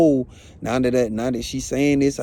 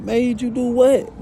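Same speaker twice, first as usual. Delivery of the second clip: much higher, slow, alarmed; alarmed question; 10 semitones higher, 3 dB louder, slower than usual. Retold or imitated. Asking his crying girlfriend what she did, high and slow. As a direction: drag out the shocked question. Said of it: "So I'm like".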